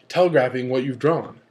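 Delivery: ordinary talk, nothing marked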